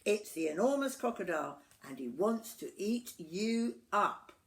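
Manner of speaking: high, loud alarmed shout; monkey yelling a warning. A narrator's reading. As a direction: warn the children with urgency. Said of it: "Mugglewump shouted to the children".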